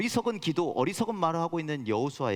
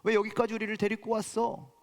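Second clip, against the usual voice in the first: complaining; 4 semitones higher than usual. Retold or imitated. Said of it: "그렇게 얘기했죠".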